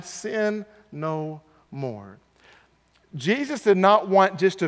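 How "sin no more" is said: soft repeat. Shown as a demonstration. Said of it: "sin no more (repeated)".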